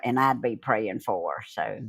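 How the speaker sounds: talking through hiccups. Real, not acted. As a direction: hiccups cutting in. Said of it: "Got the hiccups, y'all".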